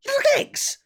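very high shocked question; incredulous. Retold or imitated. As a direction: disbelief at the idea. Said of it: "They're like".

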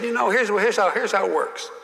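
impersonating a senator lecturing a rookie; Russell Long voice. Retold or imitated. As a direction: talk down like a wily old pol. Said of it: "and he went like this".

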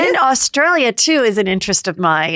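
a hint of a bubbly realtor; lightly voiced Chrishell flirting. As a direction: play Chrishell meeting her future wife. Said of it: "I'm gonna be Chrishell".

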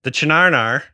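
"Chinarnar" said as chuh-NAR-nar, a guessed Aussie term; mangled pronunciation. Shown as a demonstration. Host admits mangling the footy term "Chinarnar". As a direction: sound out "Chinarnar" with a hard ch and two nar syllables. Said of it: "I'm absolutely massacring the pronunciation".

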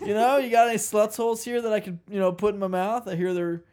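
lightly voiced bro tourist; sleazy tourist asking a shopkeeper; Carl the wannabe bro. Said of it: "His name is Carl".

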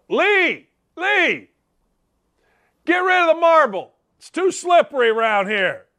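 high, loud call across the room. Real, not acted. Host calling out to Lee about the marble floor, loud call. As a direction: shout over to Lee to get rid of it.

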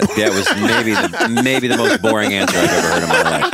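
laughing. Real, not acted. Teasing a boring answer.

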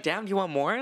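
lightly snarky mock customer-service quip; playful, mildly sassy retort; a little snarky. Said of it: "I would be a little snarky".

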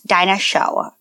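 imitating a toddler saying "dinosaur" as dino-show-uh; toddler pronunciation. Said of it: "says the word dinosaur like this".

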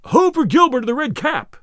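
high-pitched crowd cheer; calling aloud. A narrator's reading. Crowd cheering on their favourite archer, calling aloud. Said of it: "all the people called aloud".

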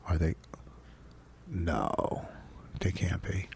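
real hushed play-by-play; hushed commentary. Real, not acted. Husband relaying his wife's phone call to listeners, hushed commentary. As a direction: keep your voice down as you commentate. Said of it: "I'm just trying to whisper".

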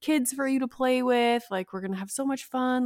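lightly voiced counselor talking a child round; a touch of put-on enthusiasm; imitated excited counselor. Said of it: "just making it excited".

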